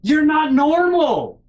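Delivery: exasperated yell. Retold or imitated. Retold yelling at mom.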